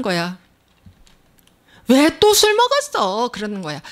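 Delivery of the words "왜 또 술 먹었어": nagging wife. Retold or imitated. Wife nagging drunk husband.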